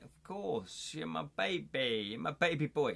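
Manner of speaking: fond mock cooing to a grown-up child; doting parent. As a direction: coo it like a besotted parent. Doting parent quoted to son.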